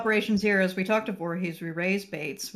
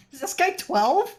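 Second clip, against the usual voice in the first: laughing; 10 semitones higher, slower than usual. Real, not acted. Laughing at character voice.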